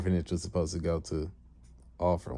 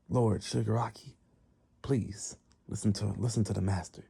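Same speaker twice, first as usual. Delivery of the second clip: hushed, slightly raised plea; pleading attendant; 2 semitones higher, 3 dB quieter than usual. Retold or imitated. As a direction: gently urge your lord to listen.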